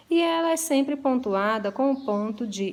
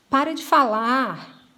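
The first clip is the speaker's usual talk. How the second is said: slow, louder stern command; severe order; 2 semitones higher, 5 dB louder, slower than usual. Shown as a demonstration. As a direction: order them to stop talking, firmly. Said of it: "possivelmente numa maneira mais severa". (ordem severa, lenta e mais alta)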